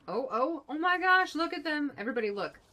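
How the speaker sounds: high, loud squeal of delight; a loud, high, thrilled yell at the chaos; excited shout. Real, not acted. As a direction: call everyone over to look. Chat members brawling on screen.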